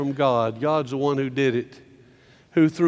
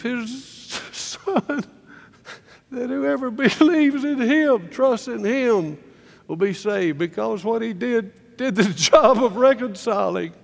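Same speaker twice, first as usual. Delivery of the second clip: higher, slow and marvelling, laughing in delight; joyful high wonder; 7 semitones higher than usual. Real, not acted. Preacher to congregation quoting the gospel verse, slow, high and glowing with joy. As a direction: let the verse lift you into happy laughter.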